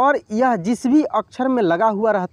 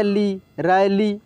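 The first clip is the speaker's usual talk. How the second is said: slow syllable reading; much slower than usual. Shown as a demonstration. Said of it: "र में आय की मात्रा रै".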